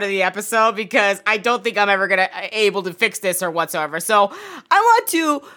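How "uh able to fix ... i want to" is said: usual speaking voice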